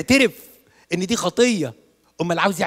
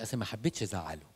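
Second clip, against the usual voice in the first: much softer, lower sheepish excuse; timid excuse; 5 semitones lower, 11 dB quieter than usual. Retold or imitated. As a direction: mumble it like a guilty girl. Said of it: "تقول لي". (همس خجول بتبرير ضعيف)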